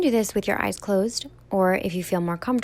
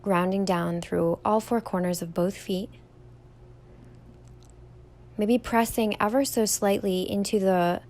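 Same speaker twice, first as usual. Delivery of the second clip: calm, even meditation guide with long pauses; guided meditation; 4 dB quieter than usual. Real, not acted. Yoga teacher leading listeners through a standing meditation, calm guided delivery. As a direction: guide them gently through each step, leaving room to breathe.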